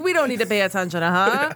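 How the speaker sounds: put-on quick, old-timey 1920s patter. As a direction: rattle it off like a 1920s flapper. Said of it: "twenties voice sneaking in there".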